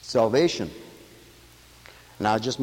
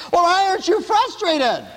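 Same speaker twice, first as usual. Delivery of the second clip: questioning guy; 4 dB louder than usual. Retold or imitated. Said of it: "Guy asked me".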